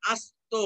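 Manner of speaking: আস্ত split as as-to; careful আস্ত with a break after the s; dental s sound. Shown as a demonstration. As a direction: hold a clear English s in আস্ত. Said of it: "দন্ত স এর correct উচ্চারণ".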